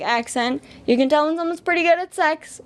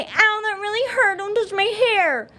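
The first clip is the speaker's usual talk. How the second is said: mock whiny girl; 9 semitones higher than usual. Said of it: "you say".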